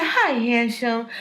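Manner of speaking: put-on slow, lightly cooed baby talk. Retelling greeting her nephew in baby voice. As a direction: coo it to a little nephew. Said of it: "I was also speaking in a fucking baby's voice".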